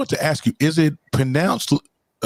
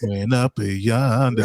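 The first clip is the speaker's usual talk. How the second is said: slow, drawn-out "yonder"; mimicked country drawl; slower than usual. Co-host echoing up yonder, slow teasing drawl. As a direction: stretch it out, teasing the country talk.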